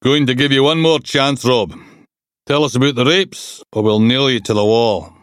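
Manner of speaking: mildly voiced cop laying down an ultimatum; lightly voiced interrogating detective. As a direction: lean on the suspect with a hint of menace. Detective threatening suspect in interview.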